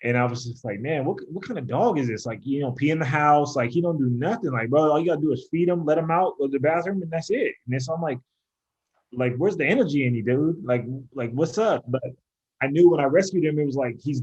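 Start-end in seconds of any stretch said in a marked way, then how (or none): 0.8-11.8 exasperated complaint. Retold or imitated. Retells frustration with lazy dog.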